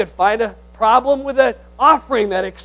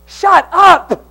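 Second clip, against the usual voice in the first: loud, high shut up; a preacher's playful outburst; mock shout; 8 semitones higher, 13 dB louder than usual. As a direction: bark it at the whiner, half joking. Preacher snaps at complainer.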